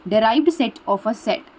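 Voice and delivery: Derived set of a set drawn out very slowly; teacher spelling out the term slowly; slow emphasis. Shown as a demonstration. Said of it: "repeated slowly for emphasis".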